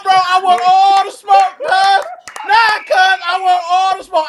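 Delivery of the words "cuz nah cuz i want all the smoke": all-in rivalry bluster; fired-up shout. Real, not acted. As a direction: yell it like a rally cry. Hyped trash talk about Dallas.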